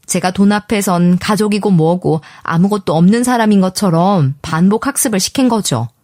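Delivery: ordinary delivery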